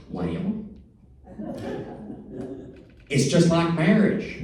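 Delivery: lightly voiced older lady, amused and knowing. Audience lady explaining the piece to the pianist, high and laughing. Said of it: "She said".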